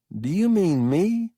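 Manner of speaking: surprised. A narrator's reading.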